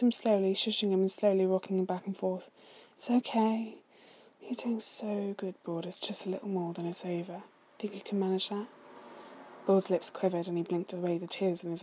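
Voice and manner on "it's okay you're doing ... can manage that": soothing. Acted. Soothing crying brother.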